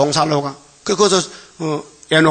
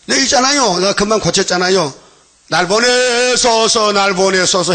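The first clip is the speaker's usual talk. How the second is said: 나서는 이사야; 5 semitones higher than usual. Retold or imitated. 이사야가 자원하며 나섬.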